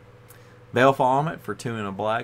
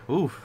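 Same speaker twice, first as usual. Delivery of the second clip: big yawn with a sigh; 6 semitones higher than usual. Real, not acted. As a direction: let out a tired yawn. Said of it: "I haven't yawned this much in".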